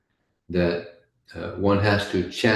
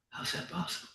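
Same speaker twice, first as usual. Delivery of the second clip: baffled; 10 semitones higher, 15 dB quieter, faster than usual. Acted. Master baffled hearing baby cry.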